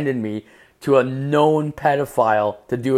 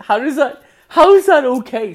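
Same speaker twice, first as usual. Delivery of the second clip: very high, loud protest; appalled disbelief; 9 dB louder than usual. Retold or imitated. Son challenging mom's casual story, appalled. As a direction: protest in pitched-up outrage.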